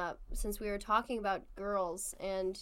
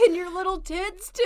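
laughing; 8 semitones higher, 6 dB louder than usual. Real, not acted. Laughing witch line.

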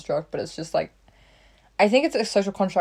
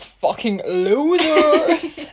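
laughing; 9 semitones higher, 5 dB louder, much slower than usual. Real, not acted. Joking insult while laughing.

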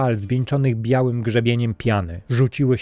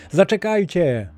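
even higher, more urgent call; shouting louder; 8 semitones higher than usual. A narrator's reading. Castaway shouting again as the men leave, more urgent. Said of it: "krzycząc".

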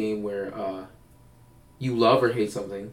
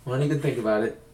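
put-on higher, breezy party-girl voice; carefree festival girl impression, pitched up; imitating a Coachella fan; 4 semitones higher than usual. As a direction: sell Coachella as the cure for everything. Imitating the Coachella expert's answer.

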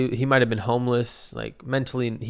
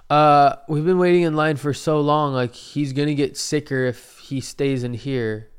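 slightly raised voice of a complaining customer; mild Karen complaint; 4 semitones higher, 5 dB louder than usual. Retold or imitated. Buzz cut lady to staff, mock Karen complaint. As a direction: imitate a Karen lightly, complaining. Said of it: "she was, like, kinda Karening".

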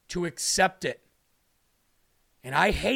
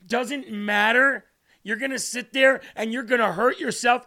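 raised, insistent scolding; exasperated reproach; 4 semitones higher, 3 dB louder than usual. Acted. Preacher as Jesus to a suffering believer, reproachful pleading. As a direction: plead hard, pitched up.

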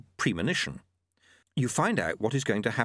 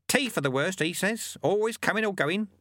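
put-on old monk voice; 9 semitones higher than usual. A narrator's reading. Lutze replies in story.

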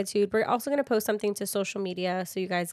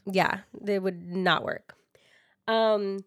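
sipping tea; slower than usual. Real, not acted. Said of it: "sorry, I'm sipping some tea".

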